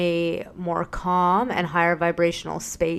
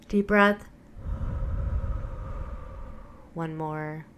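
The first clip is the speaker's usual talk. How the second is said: guided breathing; 3 dB quieter than usual. Acted. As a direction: guide them gently, softening into the release. Leads breathing exercise.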